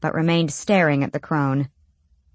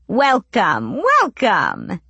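calling out; 3 semitones higher, much slower than usual. A narrator's reading. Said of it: "shouted an old woman".

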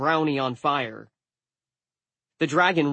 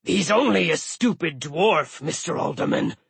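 muttering dragon; 4 semitones higher, 3 dB louder than usual. A narrator's reading. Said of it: "the dragon muttered to himself".

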